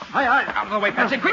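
shrill panicked scream, very loud. Acted. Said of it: "the colonel screaming that he can't see".

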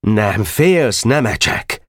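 Feri's mock yell at the boy; retold shout. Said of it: "Azt kiáltotta".

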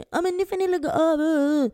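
high, mock screech of a strange woman; put-on high-pitched scolding cry; retold screaming. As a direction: imitate a witchy woman yelling at them. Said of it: "så här skriker typ att".

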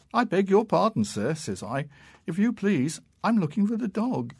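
a frightened schoolboy answering; boy's voice. A narrator's reading.

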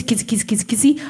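whispered playful kissing. Retold or imitated. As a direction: coo it under the breath. Acting out kissing.

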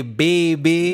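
put-on New Orleans-style "baby"; playful New Orleans drawl; New Orleans accent. Shown as a demonstration.

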